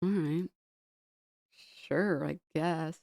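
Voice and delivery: soft, unimpressed mock disgust; imitated grossed-out reaction. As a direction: murmur a reluctant, put-off response. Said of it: "People were just, like, grossed out".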